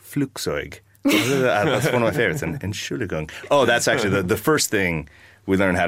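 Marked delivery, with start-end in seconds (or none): 0.0-0.8 Flugzeug said with relish as a German word; savoring German. Shown as a demonstration. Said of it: "the words are just very fun to say". 2.4-3.3 Entschuldigung said softly as a favorite word; savoring the German word Entschuldigung. Shown as a demonstration. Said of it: "very fun to say".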